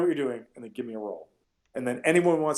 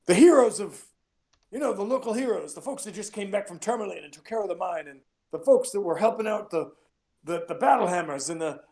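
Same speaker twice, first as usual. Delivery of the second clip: hype announcer; 5 semitones higher than usual. Retold or imitated. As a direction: announce the heroes to the crowd. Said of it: "has been like".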